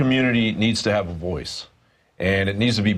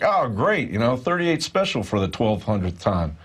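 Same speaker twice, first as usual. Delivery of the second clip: mock-enthusiastic, dripping sarcasm; sarcastic; 3 semitones higher than usual. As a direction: fake delight over tired radio. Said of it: "I'm being sarcastic".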